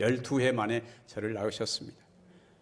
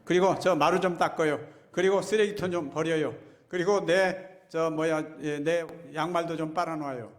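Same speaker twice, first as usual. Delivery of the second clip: 잔소리하는 아내 흉내; 4 semitones higher than usual. Retold or imitated. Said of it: "그랬더니 아내가".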